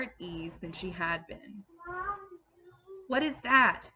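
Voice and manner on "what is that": high, loud, alarmed question; sudden startled cry. A narrator's reading. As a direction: burst out as if startled. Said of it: "she cried all at once".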